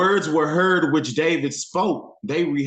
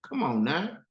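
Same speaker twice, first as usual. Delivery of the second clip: higher, swaggering boast; cocky David; 5 semitones higher than usual. Retold or imitated. David boasting to Saul about the lion, higher and cocky. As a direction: brag that he has done harder. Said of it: "He like".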